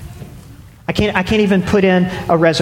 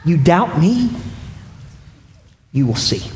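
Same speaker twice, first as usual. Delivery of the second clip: playful challenge; 4 dB quieter than usual. Retold or imitated. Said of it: "And Jesus is saying".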